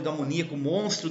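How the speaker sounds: declame os versos com ênfase; recitação de poema. Acted. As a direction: leitura declamada de um poema, em frases ligadas. (declamação poética)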